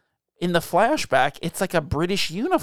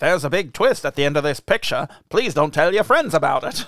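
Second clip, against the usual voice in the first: put-on old film announcer. Mimicking the old film warning just played.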